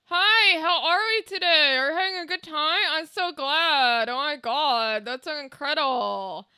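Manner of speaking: chirpy greeting through a motionless open mouth; ventriloquist, mouth open. Shown as a demonstration. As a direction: talk without moving your lips, mouth held open. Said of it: "I can talk with, like, out moving my mouth".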